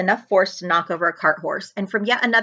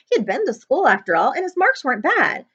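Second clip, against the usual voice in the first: plain reading voice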